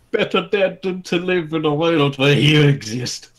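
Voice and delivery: hint of an angry short brawler. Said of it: "the short one said".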